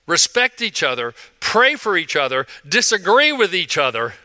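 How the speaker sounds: preaching. Acted. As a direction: drive the repeated each other home. Preacher builds a repeated appeal.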